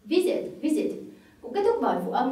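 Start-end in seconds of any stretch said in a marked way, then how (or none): 0.0-0.9 "visit" with a higher, stressed "vi"; stress on first syllable. Shown as a demonstration. Teacher repeats an English word for learners, stress on first syllable. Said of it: "chúng ta lại nhấn âm tiết thứ nhất".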